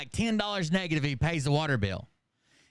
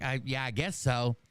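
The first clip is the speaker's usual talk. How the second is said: unsure wife; 6 semitones lower than usual. Retold or imitated. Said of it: "the wife is like".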